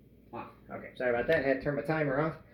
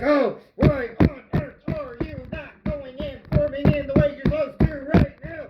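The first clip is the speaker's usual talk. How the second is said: high, strained comic rant at the dough; hammed-up exasperation, dragged out; mock mad; 10 semitones higher, 5 dB louder than usual. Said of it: "start getting madder and madder".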